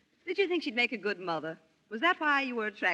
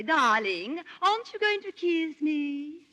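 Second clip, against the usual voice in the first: slow, higher, louder coaxing plea; mock Bianca; 6 semitones higher, 5 dB louder, slower than usual. Wife playing Bianca, begging a kiss, higher and slow. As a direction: coax him for a kiss. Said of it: "And then she'll say".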